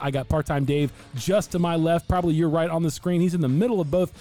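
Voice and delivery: drawn-out announcer-style show opening; host the show with sing-song showmanship; upbeat, stretched-out podcast welcome; podcast intro. Acted.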